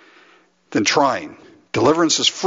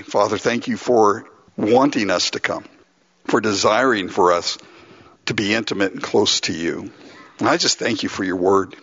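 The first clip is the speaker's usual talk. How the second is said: lower-pitched, sincere prayer; 4 semitones lower than usual. Real, not acted. Pastor thanking the Father before communion, sincere low prayer. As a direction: pray aloud in measured phrases with pauses.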